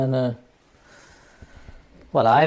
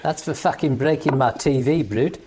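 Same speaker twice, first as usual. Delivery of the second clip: put-on South African accent. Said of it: "trying to do the South African accent".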